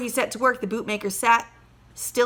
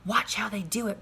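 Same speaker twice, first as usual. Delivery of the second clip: breathed; 5 dB quieter than usual. Acted. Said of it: "breathed his wife".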